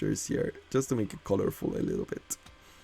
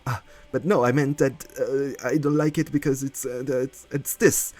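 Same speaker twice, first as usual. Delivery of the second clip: stumbling, slightly raised mimicking voice; mock flustered backpedalling; 4 semitones higher than usual. Streamer mimicking a hater in the replies, mock flustered. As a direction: fumble through a hammed-up excuse.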